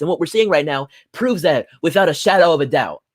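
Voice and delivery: rising, heated political rant; getting pissed off over stabbed friends; heated anger. Real, not acted. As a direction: let real anger push the pitch up. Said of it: "Sorry, I'm getting pissed off here".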